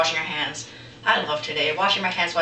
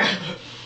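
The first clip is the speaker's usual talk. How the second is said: short voiceless fake sobs; mock sobbing; 3 dB quieter than usual. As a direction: imitate someone blubbering. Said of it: "And he's all crying".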